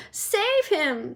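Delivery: high panicked plea; mild mock scream. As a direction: scream for help. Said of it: "screamed Missus Gloop".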